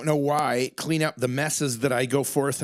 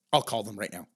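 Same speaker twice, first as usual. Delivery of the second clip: imitating partner on phone; 6 semitones lower, 4 dB quieter, faster than usual. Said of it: "right away you're like".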